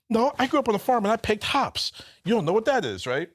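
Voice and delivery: lightly voiced know-it-all drunk; drunk regular's voice. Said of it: "his voice gets all high".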